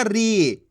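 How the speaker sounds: री with the ee drawn out; teacher's drawn-out री; stretched long ee. Shown as a demonstration. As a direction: hold the vowel in री, then let it fall. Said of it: "बड़ी ई की मात्रा को खींच के पढ़ा जाता है".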